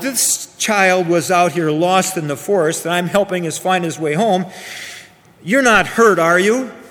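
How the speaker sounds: ordinary delivery, nothing marked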